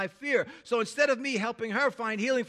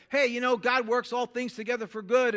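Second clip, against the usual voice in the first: mock perky cheer; breezy cheerful platitude, lightly done; 4 semitones higher, 5 dB louder than usual. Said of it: "something perky like".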